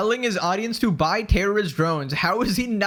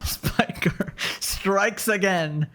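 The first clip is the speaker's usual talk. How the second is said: slow, read through a laugh; much slower than usual. Real, not acted. Streamer reading a tweet, slowly through laughter. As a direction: read it out while cracking up.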